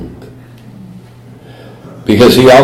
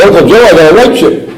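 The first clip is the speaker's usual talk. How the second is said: proudly announcing a white chip, higher; eager announcement; 7 semitones higher than usual. Retold or imitated. Nephew trying to get his sober uncle's attention, eagerly. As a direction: show it off, hoping he'll notice. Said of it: "I said".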